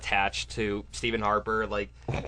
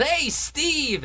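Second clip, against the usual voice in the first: high, raised calling-out; Bush yelling; 5 dB louder than usual. Retold or imitated. President hailing a fellow leader, mock yell. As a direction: holler a mock greeting far above usual pitch. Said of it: "Bush saw him and yelled".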